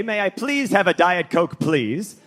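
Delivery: sing-song, polite please; polite request. Shown as a demonstration. Comedian shows the polite way to ask for a Diet Coke, sing-song. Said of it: "you're supposed to say".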